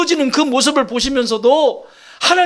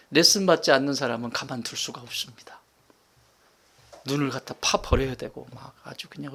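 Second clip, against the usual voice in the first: whisper; 9 semitones lower, 8 dB quieter than usual. Real, not acted. Sermon line dropped to whisper.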